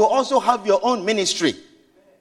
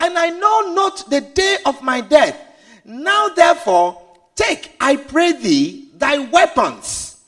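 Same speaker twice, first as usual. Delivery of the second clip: Isaac pleading. Acted. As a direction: draw out each item like an old man asking. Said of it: "he says".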